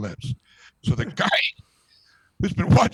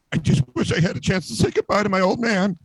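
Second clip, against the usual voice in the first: higher-pitched, hammed-up tearful wish; mock tearful; 4 semitones higher than usual. Pianist mourning his old man, mock tearful. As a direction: play it as a lightly faked cry. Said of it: "then he starts to cry".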